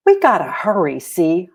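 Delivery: urgent call to hurry; excited child's shout. A narrator's reading. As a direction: call out eagerly to a friend. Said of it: "Holly shouted".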